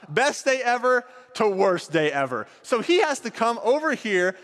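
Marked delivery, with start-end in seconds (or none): 0.1-1.0 upbeat, high and pleased; mock best day. Haman before the parade, pleased and upbeat. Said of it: "He went from". 1.5-2.5 lower, glum groan of a line; mock worst day. Haman forced to honor Mordecai, glum and low. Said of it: "He went from".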